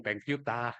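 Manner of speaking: "thank you tah" with an Australian "ah" ending; Australian accent. Retold or imitated. Judge showing students how Australians talk, imitated Australian accent. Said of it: "Kalau Inggris Australia lebih".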